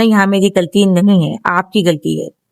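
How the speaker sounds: calm, firm statement, no apology. Shown as a demonstration. Wife telling husband it's not her fault, calm and firm. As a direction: state it steadily, standing your ground. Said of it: "آپ نے بولنا".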